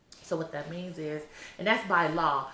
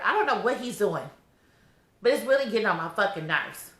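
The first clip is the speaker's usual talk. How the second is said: irritated; 4 semitones higher, 6 dB louder than usual. Real, not acted. Pregnant woman complaining the overdue baby is getting on her nerves, irritated. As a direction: vent the irritation. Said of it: "You can tell I'm irritated".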